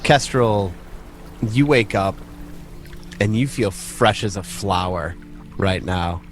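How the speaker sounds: ordinary talk, nothing marked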